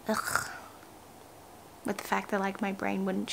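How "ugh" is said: short unvoiced "ugh" of reluctance; weary groan. Real, not acted. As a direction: let out a throaty, fed-up ugh. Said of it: "I just kinda feel like".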